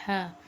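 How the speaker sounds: "हा" breathed smooth from the throat; soft throaty haa. Shown as a demonstration. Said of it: "बहुत smooth, बहुत नरम". ("हा" बहुत स्मूथ, बहुत नरम, हलक से)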